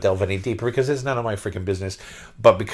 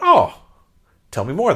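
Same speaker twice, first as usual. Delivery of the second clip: gushing fan; 9 semitones higher, 5 dB louder than usual. Retold or imitated. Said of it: "And I went".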